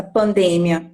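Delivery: Pandemia stressed on the DE, pan-DE-mia; contrasting word stress. Shown as a demonstration. Teacher showing the difference in stress, Pandemia stressed on de. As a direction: say Pandemia with weight on de and a short mia. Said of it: "vai ter essa diferença".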